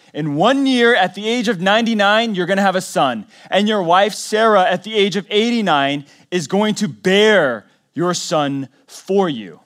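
building preacher's proclamation; proclaiming. Real, not acted. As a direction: preach the promise out with force. God's promise proclaimed loudly.

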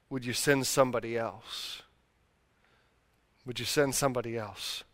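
soft prayer. Retold or imitated. Retold prayer in the car.

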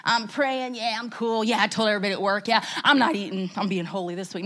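low, offhand, breezy brag; mock chilling. Preacher mimicking herself fasting with ease, mock chilling. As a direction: play it too cool and casual. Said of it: "like, chilling".

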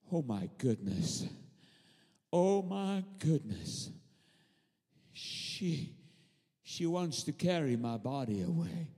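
soft, low, marvelling voice; hushed amazement. Acted. Preacher as Jesus looking at Mary, hushed amazement. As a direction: say it quietly, as if deeply moved.

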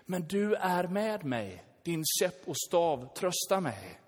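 3 settle into calm trust in God; 4 a gentle, slow murmur of faith. Retold or imitated. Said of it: "få känna att".

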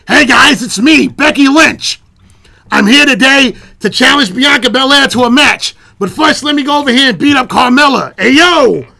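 hammed-up Irish brogue; comic's playful Irish accent impression; Irish accent Becky. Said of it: "master's degree in Irish accent".

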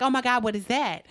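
mildly alarmed at a noise outside the door; retold freak-out. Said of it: "I start freaking out".

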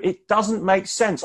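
a man begging to understand; Job's plea. Acted. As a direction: lift it up as Job's cry of confusion. Preacher voices Job's lament.

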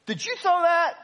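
high shouted question across the stands; calling up. Retold or imitated. Angry fan calls up to peanut throwers, shouting high. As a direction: yell it up the rows.

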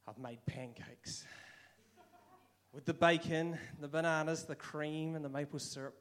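proud dad showing off breakfast; God as a dad in an apron, eagerly serving pancakes; delighted father. Retold or imitated. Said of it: "imagine God coming out with an apron on".

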